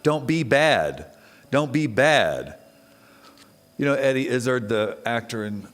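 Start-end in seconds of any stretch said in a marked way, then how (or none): 0.0-2.6 scolding. Retold or imitated. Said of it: "an insanely horrible thing to say".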